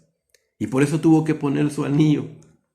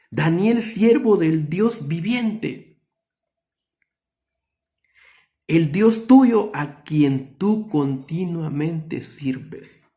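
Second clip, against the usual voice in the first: very slow, higher, sorrowful call, last word breathed out; sad calling voice; 4 semitones higher, much slower than usual. Acted. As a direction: call him slowly as if afraid he is dead. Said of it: "Pero él estaba triste".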